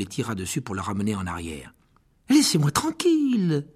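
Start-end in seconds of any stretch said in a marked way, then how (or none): 2.3-3.7 high, slow, loud protest; called out. Acted. Harry struggling free of the dwarf, high loud protest. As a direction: push him off with a cry. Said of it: "lança Harry".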